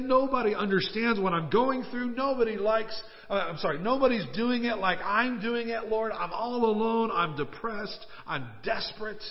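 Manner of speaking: hammed-up self-pitying outcry, starting high and sinking; desperate complaint. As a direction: imitate a hurting man crying out to God. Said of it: "He's in the spiritual wilderness. He is hurting".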